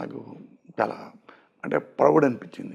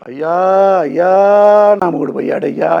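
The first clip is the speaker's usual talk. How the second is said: higher, louder mock lament, imitating a wailing widow; mock widow's wail; 5 semitones higher, 8 dB louder than usual. Husband imitating how his widow must not wail. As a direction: wail it like a hammed-up mourner. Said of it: "ఇట్లాంటివి వద్దు".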